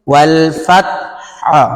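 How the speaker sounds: ওয়াল ফাতহা slowly, হ pressed and released. Shown as a demonstration. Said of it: "এই হাটা চাপ দিয়ে এরকম করেই ছাড়বেন".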